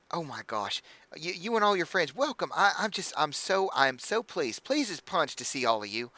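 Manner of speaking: high, gushing hostess voice; bubbly halfling innkeeper. Acted. Innkeeper welcoming the party, high and gushing.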